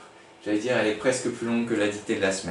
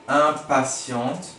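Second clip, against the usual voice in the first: "impatiente" stretched very slowly; drawn-out "impatiente"; 2 semitones higher, 3 dB louder, much slower than usual. Shown as a demonstration. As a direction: say "impatiente" syllable by syllable. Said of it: "spelling demo".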